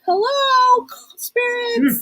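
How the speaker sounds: high, eerie whispered call to the spirits; spooky ghost greeting. Pretend. Friend greets spirits at a ghost party, eerie whisper. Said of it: "we'll be like".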